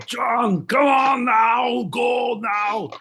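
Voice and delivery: hammed-up action-movie shout; calling out. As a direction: yell to him to get to the chopper. Calling out in chopper bit.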